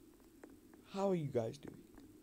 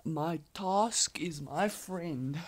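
silly voice; 4 semitones higher, slower than usual. Pretend. Silly singsong voice while playing.

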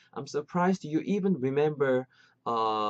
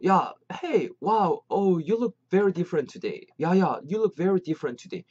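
higher, exclaiming at a friend's new look; acted surprised greeting; 4 semitones higher, much slower than usual. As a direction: greet a friend with playful amazement. Acting out the example dialogue.

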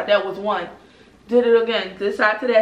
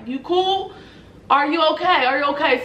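concerned instructor; 4 semitones higher than usual. Retold or imitated. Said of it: "So the guy like".

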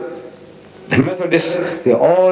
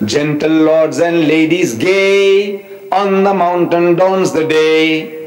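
slow, sing-song recital of a school verse; slow poem recitation; much slower than usual. Retold or imitated. Lecturer reciting his childhood school poem, slow and sing-song. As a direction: lilt each line slowly like a child's recitation. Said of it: "It says".

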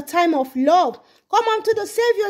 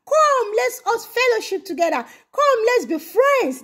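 the Lord inviting; 4 semitones higher than usual. Acted. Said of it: "The Lord is saying".

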